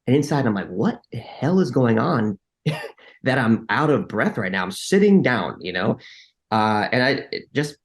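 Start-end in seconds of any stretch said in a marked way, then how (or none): 0.7-5.6 retold inner alarm, bewildered; baffled disbelief. Man to himself, out of breath while sitting, baffled disbelief. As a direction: act out a baffled inner outcry. Retells inner panic in meeting.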